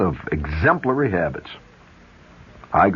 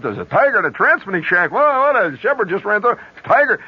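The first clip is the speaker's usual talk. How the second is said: excited yelling; 11 semitones higher than usual. Retold or imitated. GI yelling about tiger.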